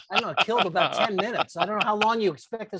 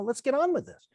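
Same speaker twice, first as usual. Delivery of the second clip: whispered, higher, brisk hurry-up; impatient whisper; 6 semitones higher than usual. Retold or imitated. Boss urging the assistant to get on with the drink, whispered. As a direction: hurry it along under your breath. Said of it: "She was just like".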